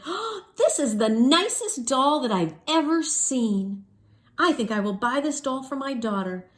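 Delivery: lady wanting doll for daughter; gushing lady. Acted. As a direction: coo over the lovely doll.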